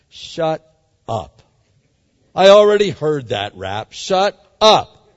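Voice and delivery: mock impatient. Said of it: "I might have said that".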